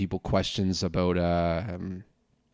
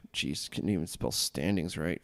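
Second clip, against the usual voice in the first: usual speaking voice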